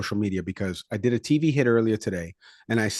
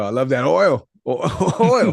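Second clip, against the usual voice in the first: Dave Chappelle quote; 2 semitones higher, slower than usual. Retold or imitated. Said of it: "It reminds me of the Dave Chappelle".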